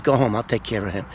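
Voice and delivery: low, soft retold reassurance; quiet reassurance. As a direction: settle it softly, voice dropped. Boss reassures after hugging him.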